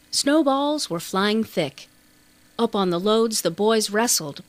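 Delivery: ordinary delivery, nothing marked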